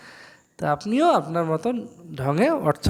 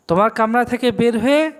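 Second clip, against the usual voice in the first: smooth flowing translation; 4 semitones higher, 3 dB louder than usual. Shown as a demonstration. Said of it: "দেখেন কত সুন্দর লাগছে".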